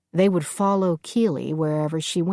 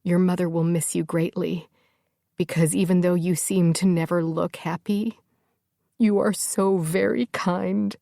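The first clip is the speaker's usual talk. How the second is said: through tears; 2 semitones higher than usual. Acted. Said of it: "on a new flood of tears".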